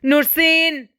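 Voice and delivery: understated searching shout; calling out. A narrator's reading. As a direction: call for her through the house. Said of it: "فقال بصوت عالي".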